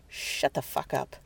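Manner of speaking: slow, hushed whisper; a whispered warning to be silent; whispered order. Acted. Woman silencing Bodine without turning round, slow whisper.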